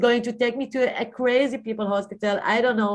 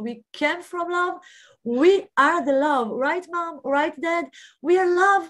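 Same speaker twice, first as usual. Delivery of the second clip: ecstatic declaration; 4 semitones higher, faster than usual. Retold or imitated. Retelling her ecstatic hospital declaration.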